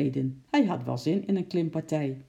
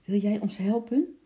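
higher, sweetly asking; gentle coaxing; 5 semitones higher than usual. A narrator's reading. Lotje asking her monkey for help, gently. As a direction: coax with a lifted, gentle question. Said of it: "zei ze zachtjes".

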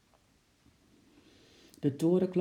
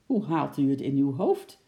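louder stern reproach; angry; 2 semitones lower, 4 dB louder than usual. Acted. Policeman scolds the man, louder angry. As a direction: scold him for the attack. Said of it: "zei de veldwachter boos".

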